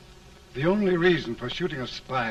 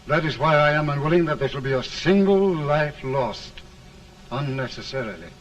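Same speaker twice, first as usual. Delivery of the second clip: firm; 5 dB louder than usual. Acted. Old film dialogue.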